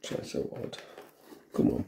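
normal talking voice

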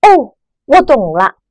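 哦 falling, bright understanding; an aha, it clicks; sudden realization. Shown as a demonstration. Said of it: "感叹的语气". (恍然大悟的赞叹)

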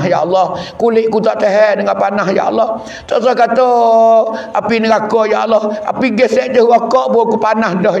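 acted supplication building from subdued to urgent; pleading night prayer. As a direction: beg God in an unbroken, rhythmic stream. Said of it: "Teriak malam-malam kita minta Tuhan".

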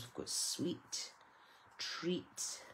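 hushed whisper of the topper words. Real, not acted. Whispering the topper words to the viewers. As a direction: breathe the words like a secret. Reading gift toppers aloud.

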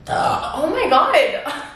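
high, slow laughing exclamation. Real, not acted. Cracking up at the high-pitched sound, laughing. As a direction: barely get it out through laughter.

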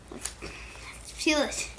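whispered under breath. Real, not acted. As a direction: whisper it while straining. Struggling to open package.

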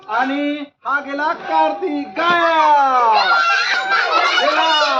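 slow, drawn-out showman announcement; grand reveal. Pretend. Magician announcing to children the boy vanished, drawn out. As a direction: stretch the reveal for the audience.

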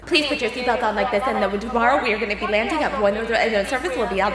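flat robotic monotone announcement. Retold or imitated. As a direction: read it like a robot, no pauses. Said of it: "monotone robot voice like this".

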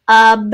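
"ub" sounded alone, drawn out as UHB; "ub" as a separate slow syllable; isolated schwa syllable. Shown as a demonstration. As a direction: stretch "ub" with an uh vowel. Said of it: "that's kind of a schwa sound".

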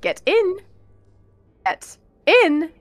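loud, repeated urging call; urgent calling. Real, not acted. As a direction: hurry them in, raising your voice. Urging friend into game.

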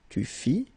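"Tu fis" as tu fi, no S; silent final S. Shown as a demonstration. Teacher modelling a verb form, silent final S. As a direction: say "Tu fis" ending on the i. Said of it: "same thing".

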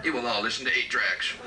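Satan voice. Retold or imitated. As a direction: announce yourself as Satan. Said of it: "Satan, destroyer of needles".

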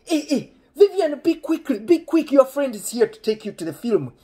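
high, loud mock summons; imitating dad calling out. Dad calling Vivian to hurry for her guest, hammed-up high shout. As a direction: holler urgently for your daughter. Dad calls daughter from back.

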